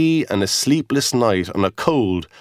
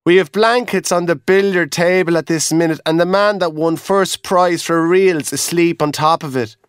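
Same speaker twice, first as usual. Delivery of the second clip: lively raised Irish lad voice; a lightly voiced young Irish porter; hotel boy; 5 semitones higher than usual. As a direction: explain the full house matter-of-factly. Boy answers guard.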